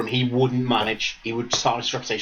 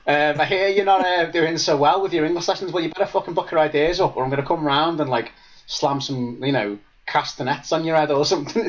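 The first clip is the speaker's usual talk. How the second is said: higher-pitched mock telling-off; Duncan Ferguson; 4 semitones higher than usual. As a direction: imitate a coach ticking off a pupil. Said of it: "Imagine that in Spain".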